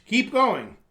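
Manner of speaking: squeaky balloon voice. Retold or imitated. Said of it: "a voice sounding like a toy balloon would, if it could talk, squeaked".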